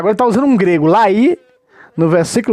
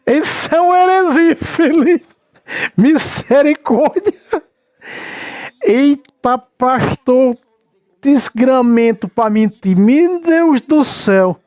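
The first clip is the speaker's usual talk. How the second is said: high, drawn-out exclamations of disbelief; mock dismay; 4 semitones higher, much slower than usual. Real, not acted. Commentator appalled at the pastor's lying, drawn-out mock dismay. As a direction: stretch each exclamation out, incredulous and amused.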